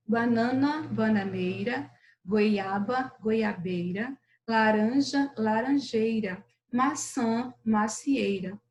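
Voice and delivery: measured word-by-word poem reading; poem recitation. Acted. Teacher reading a fruit poem for pupils to follow, measured recitation. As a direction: recite each fruit and tree evenly.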